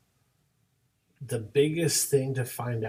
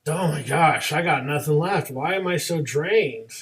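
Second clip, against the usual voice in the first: louder, worn-out venting; drained exasperation; 6 dB louder than usual. Acted. Teacher venting after kids didn't listen, drained exasperation. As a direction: vent like you've got nothing left. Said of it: "some days where you're just like".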